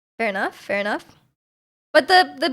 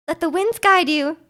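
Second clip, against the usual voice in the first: put-on higher, boyish game-character voice; lightly voiced young bard, pitched up; Venti; 4 semitones higher than usual. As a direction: lift your voice into a boy character. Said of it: "he sounds like that".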